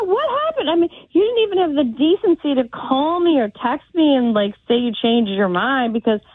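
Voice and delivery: normal talking voice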